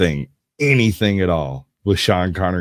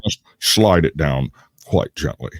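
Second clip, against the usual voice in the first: Sean Connery impression. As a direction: read a manual like Sean Connery. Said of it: "That's not bad".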